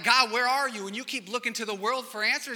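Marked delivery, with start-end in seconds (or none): 0.0-0.9 crying out. Acted. Believer crying out to God.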